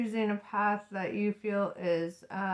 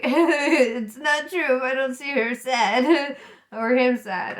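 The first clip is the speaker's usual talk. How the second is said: laughing mock quote; 4 semitones higher, 8 dB louder, slower than usual. Mocking people who need proof.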